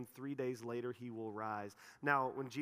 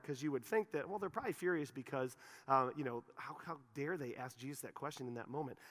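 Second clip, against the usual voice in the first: ordinary talk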